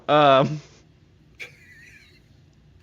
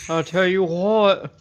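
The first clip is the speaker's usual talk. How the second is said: slow Texan drawl; Hank Hill voice; slower than usual. Pretend. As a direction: drag out the catchphrase.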